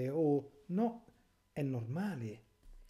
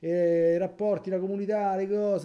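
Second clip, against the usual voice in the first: higher, louder sneering parody; mocking modernists; 5 semitones higher, 7 dB louder than usual. Priest parodies the modernists, loud and sneering. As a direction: caricature the modernists with scorn.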